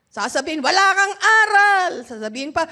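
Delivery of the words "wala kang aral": louder, mock family put-down; lightly acted scornful jab; scolding relative. Voices family's insult. (kunwaring panlalait ng kapamilya)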